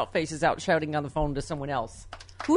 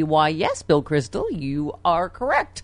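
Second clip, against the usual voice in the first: polite chipmunk; slower than usual. Pretend. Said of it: "I'll be a polite chipmunk".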